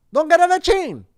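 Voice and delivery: loud, high hammed-up Italian accent; stereotypical Italian accent. Host hamming a stereotypical Italian voice, loud and high. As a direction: shout it in a cartoon Italian accent. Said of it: "problematic Italian, uh, stereotypical voice".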